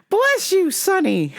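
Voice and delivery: put-on high, slow little-old-lady voice; sweet old grandma. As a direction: play a tiny sweet grandma asking politely. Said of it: "And she's like".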